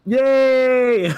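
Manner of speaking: high laughing yay; laughing cheer. Pretend. Joining the mock applause.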